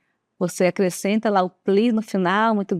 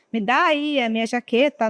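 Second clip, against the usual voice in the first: blunt demand. Shown as a demonstration. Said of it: "Como eu mudaria esse give me".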